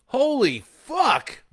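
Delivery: drawn-out high shocked yell; shout. A narrator's reading. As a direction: scream it slowly in horror. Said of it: "Bo shouts".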